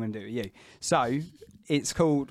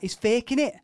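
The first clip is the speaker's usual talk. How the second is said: mocking Scouse accent, pitched higher and louder; Scouse kid; 10 semitones higher, 4 dB louder than usual. Scouse schoolkid taunts injured boy, Scouse accent. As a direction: imitate the Scouse kid jeering in Scouse. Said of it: "Is that a Scouse accent?".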